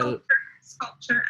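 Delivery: "Sculpture, sculpture" said clearly for a learner; careful pronunciation model. Shown as a demonstration. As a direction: model "Sculpture, sculpture" with both syllables distinct. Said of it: "how can we pronounce sculpture".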